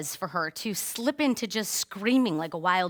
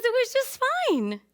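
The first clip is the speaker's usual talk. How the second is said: high, slow, loud sing-out; exaggerated little-girl cheeriness; daughter's fine facade; 5 dB louder, slower than usual. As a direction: draw it out high like a kid insisting. Voicing daughter putting on a facade.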